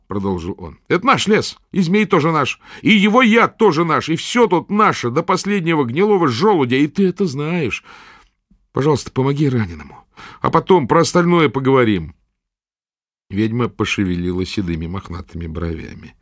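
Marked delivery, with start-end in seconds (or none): 0.9-12.1 put-on high, earnest boy's voice; a lad standing his ground; young boy. A narrator's reading. Boy Potyk argues.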